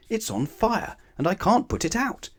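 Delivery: high, panicked farmer's cry; a frantic farmer pleading for help; worried farmer. Acted. Storyteller voicing the farmer crying out, high and panicked. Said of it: "cried the worried farmer".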